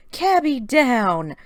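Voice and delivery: firm command. Acted. Commanding an overeager pet.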